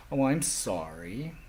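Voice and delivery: drawn-out, imitated condescending sympathy; put-on pitying "sorry", stretched out; mock pity. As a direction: act out an overdone, slow apology. Acted pitying remark to hearing people.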